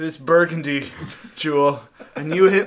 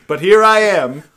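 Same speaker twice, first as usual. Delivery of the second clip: news reader; 4 dB louder than usual. Acted. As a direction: read it like a grave anchor. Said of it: "Do the voices".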